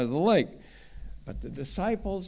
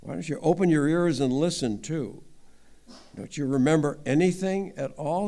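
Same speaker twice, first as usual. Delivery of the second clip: harsh rebuke. Acted. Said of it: "That's pretty harsh".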